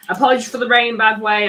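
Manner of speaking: loud apology over the rain. Real, not acted. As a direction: project over the noise of the rain. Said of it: "I'm gonna try to speak louder".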